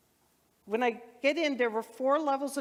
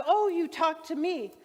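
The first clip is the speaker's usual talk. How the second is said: excited; 6 semitones higher, 4 dB louder than usual. Retold or imitated. Clerk recognizes her.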